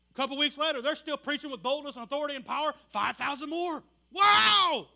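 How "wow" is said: much higher, much louder exclamation; loud, high cry of wonder; amazed wow. Real, not acted. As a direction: blurt out your astonishment. Preacher marvels at growth.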